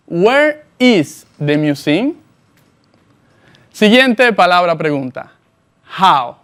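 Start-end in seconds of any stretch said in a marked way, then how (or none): 0.1-2.1 each word spaced out slowly for the learner; slow model sentence. Shown as a demonstration. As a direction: say it slowly and clearly, like a teacher modelling. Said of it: "presta mucha atención". (pregunta modelo, lenta y clara)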